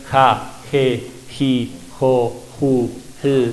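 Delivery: "Ja, je, ji, jo, ju" with a soft English H breath. Shown as a demonstration. Teacher showing the soft Muisca H sound. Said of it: "más suavecita".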